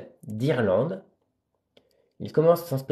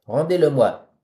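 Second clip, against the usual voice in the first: a touch of irritated calling out; irritated shout; 3 semitones higher, 5 dB louder than usual. Acted. Puppeteer demanding the boy back, mildly irritated cry. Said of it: "criant d'une voix irritée".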